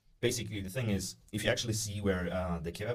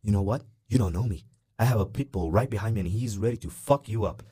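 louder, menacing retelling of the guy's threat; retold threat; 6 dB louder than usual. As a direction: imitate the guy squaring up, pushing into his face. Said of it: "he came all the way up to my face".

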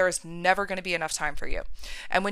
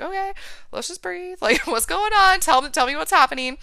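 calming, slowing down; 8 semitones higher, 5 dB louder than usual. Retold or imitated. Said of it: "And we just slowed things down".

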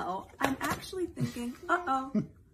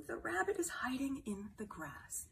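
whisper; 2 semitones higher, 7 dB quieter than usual. Acted. Hiding rabbit in story.

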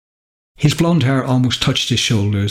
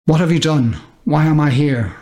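scared shout; 5 semitones higher than usual. Acted. Scared boy calls at the sky.

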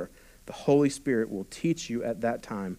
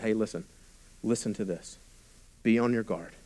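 hushed close voice, lower; intimate; 3 semitones lower, 7 dB quieter than usual. Retold or imitated. Jesus quietly drawing his disciples close, soft and intimate. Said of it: "This is an intimate conversation".

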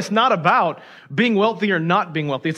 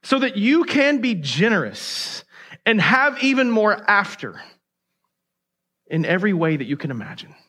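emphatic promise. Shown as a demonstration. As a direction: drive the promise home. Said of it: "Don't miss this".

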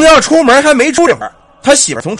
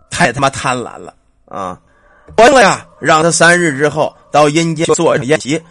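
man's voice. Acted. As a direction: grumble and scold as the ghost father. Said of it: "他媳妇儿说话又变了。变男的了".

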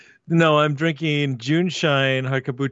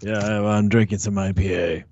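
lower-pitched, poor imitation of a co-host; badly faked, lowered voice of a friend; Edgar; 5 semitones lower than usual. Guest answers for the muted co-host, badly imitating him. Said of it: "That's my terrible Edgar impression".

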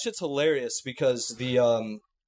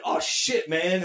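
put-on kid talking shit; 3 semitones higher, much slower than usual. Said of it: "they're still like".

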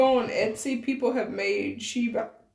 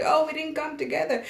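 higher, softer imitation of a singer; light, amateurish celebrity impression; 5 semitones higher, 4 dB quieter than usual. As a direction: attempt her voice, not very well. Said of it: "I don't have a good voice for that singer".

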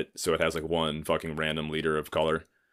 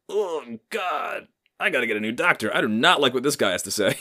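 mock panicked self; 7 semitones higher than usual. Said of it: "I was like".

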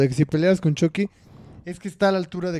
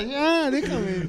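slow, higher mock brute voice; mock Michael Myers; 8 semitones higher, much slower than usual. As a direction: drag it out as the big masked killer. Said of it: "Así con su manota".

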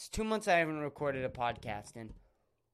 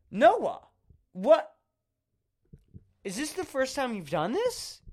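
much higher and louder, a squealing disbelieving cry; shocked shriek; 9 semitones higher, 4 dB louder than usual. Retold or imitated. Shrieking at Noah in retold horror. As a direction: screech it in horrified disbelief.

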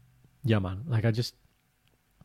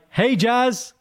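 colleague greeting; 12 semitones higher, 4 dB louder than usual. Retold or imitated.

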